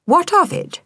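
high, haughty challenge; possessive. A narrator's reading. Delilah challenging the stray, haughty possessive. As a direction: toss it back defiantly. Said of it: "Delilah said possessively".

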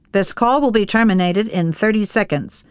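lightly voiced recorded phone operator; flat automated phone recording; mechanical operator voice. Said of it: "the mechanical voice breaks in".

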